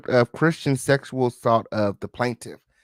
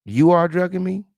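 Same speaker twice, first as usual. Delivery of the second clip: "You are drugging me?" high and loud, rising through to ME; asked as a question; 6 semitones higher, 5 dB louder than usual. Retold or imitated. Host guesses she asked him, high questioning tune. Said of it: "I'm believing she asked him".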